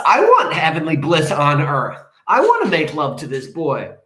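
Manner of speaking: hammed-up daughter's protest, high at first; mock yelling at mom. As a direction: whine and argue like a thwarted teenager. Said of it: "she yells at her mom".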